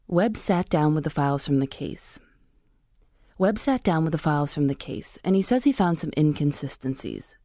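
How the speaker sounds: measured true-crime script read; podcast narrator tracking a script; story narration. Acted. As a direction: read the case narration evenly into the mic.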